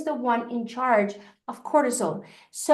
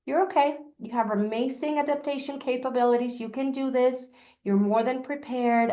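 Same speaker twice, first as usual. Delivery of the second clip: reassuring self-talk. Shown as a demonstration. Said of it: "I'll just say".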